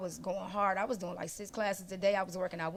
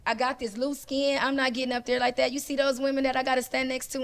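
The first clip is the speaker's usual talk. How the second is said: retold emotional breakdown; 5 semitones higher, 5 dB louder than usual. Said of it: "I was having an emotional breakdown".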